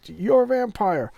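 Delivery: high, slow, horrified gasp of a line; mock gasp it out as the truth dawns; shocked realization. Wife realizing her husband is a vampire, hammed-up shock.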